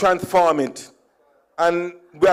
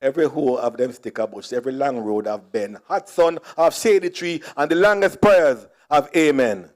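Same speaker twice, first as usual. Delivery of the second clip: quoting Miss Lou; 4 semitones lower than usual. Retold or imitated. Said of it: "and I quote".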